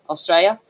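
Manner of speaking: "Australia" in three syllables, uh-STRAY-ya; southern pronunciation. Shown as a demonstration. Repeating the down south version, "Australia" as Aus-straya. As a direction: keep a first syllable on "Australia". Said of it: "they tend to put".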